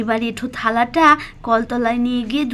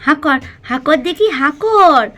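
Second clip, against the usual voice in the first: coaxing mother; 2 semitones higher, slower than usual. Acted. Mala, to Pakhi, coaxing her to eat. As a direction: nudge the child to start eating.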